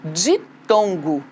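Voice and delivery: "Ditongo" bem devagar e grave; palavra lenta em destaque. Shown as a demonstration. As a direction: diga "Ditongo" devagar, sílaba por sílaba. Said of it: "Lembra como que se chama isso daí?". (professora revela o termo devagar)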